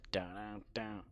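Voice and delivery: unvoiced whisper. Real, not acted. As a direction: breathe the words, no voice. Whispered aside after laughing.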